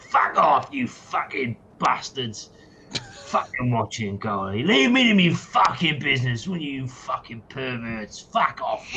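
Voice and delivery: mock-furious satyr swearing at spying eyes; angry satyr. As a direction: shoo off the watchers like an irritable little satyr. Satyr yells at watching eyes.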